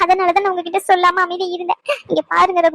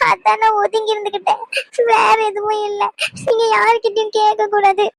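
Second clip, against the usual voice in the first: crying while talking, pitch raised; tearful; 5 semitones higher than usual. Acted. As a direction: weep through the confession. Wife confesses hurt, weeping.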